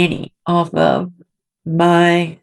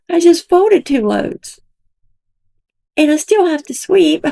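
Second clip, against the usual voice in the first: mocking imitation, louder; 10 semitones higher, 3 dB louder than usual. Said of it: "sitting on live on her butt all day".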